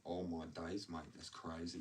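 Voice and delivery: lightly drawn-out Queensland Australian; laid-back, drawn-out Australian accent. Shown as a demonstration. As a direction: stretch it into a Queensland twang. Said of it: "like, a little bit more drawn out".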